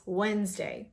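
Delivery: Wednesday as "wenz-day"; Wednesday in two syllables; silent D. Shown as a demonstration. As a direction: say Wednesday without the D. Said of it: "Forget about the D".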